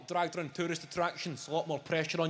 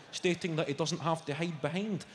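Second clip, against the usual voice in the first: ordinary talk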